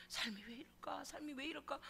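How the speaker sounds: breathy whisper to yourself; hushed, voiceless self-questioning; whispered lament. Retold or imitated. Inner lament in hardship.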